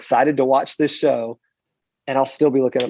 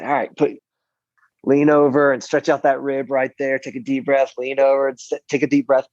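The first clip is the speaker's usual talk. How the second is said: stretch coach. Shown as a demonstration. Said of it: "we'll just go through a stretching thing".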